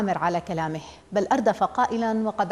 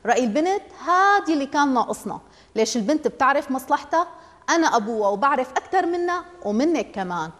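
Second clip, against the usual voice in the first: father rejecting the daughter's say, raised indignant voice; 5 semitones higher than usual. Acted. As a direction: scoff at asking the girl. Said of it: "رفع صوته مستنكرا".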